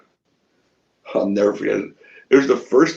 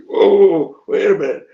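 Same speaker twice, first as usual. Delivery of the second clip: higher, louder sudden protest; acted hasty backtracking; 7 semitones higher, 7 dB louder, slower than usual. Wrestler calling back the promoter, acted alarmed backtracking. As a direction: blurt it to stop someone leaving.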